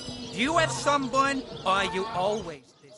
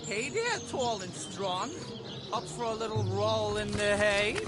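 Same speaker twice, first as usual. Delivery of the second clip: flirty come-on; 5 dB quieter than usual. Acted. Flirting with a passerby.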